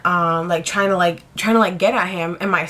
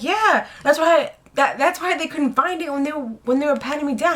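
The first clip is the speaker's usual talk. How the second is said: put-on smug drunk guy; 6 semitones higher than usual. Guy smugly explains hiding spot.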